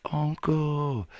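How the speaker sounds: high breathy whisper calling uncle; faint call from far down the alley; distant whispered call. Acted.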